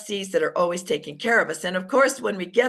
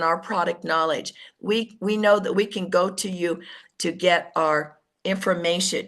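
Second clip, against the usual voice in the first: calm praise; 3 semitones lower than usual. Shown as a demonstration. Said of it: "I say".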